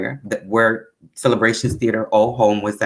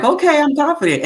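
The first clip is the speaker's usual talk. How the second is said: mock confident; 4 dB louder than usual. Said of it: "I was like".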